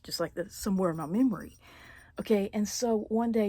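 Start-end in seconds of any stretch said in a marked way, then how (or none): 0.0-1.6 choked, fast whisper holding back tears; barely voiced, trying not to cry; fighting back tears. Real, not acted. Telling viewers a painful childhood memory, near-tearful whisper. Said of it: "trying really hard not to get emotional".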